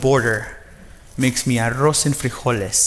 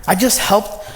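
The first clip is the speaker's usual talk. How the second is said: excited self-defense; 6 semitones higher than usual. Retold or imitated. Defending his job to mom.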